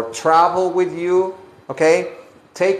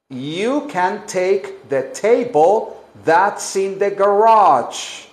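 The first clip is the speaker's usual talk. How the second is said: slow model sentence. Shown as a demonstration.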